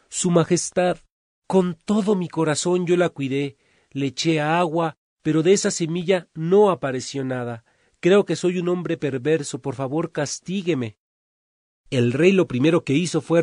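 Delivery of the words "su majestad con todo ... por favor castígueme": tearful pleading. Acted. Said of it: "Freddy lloraba muchísimo".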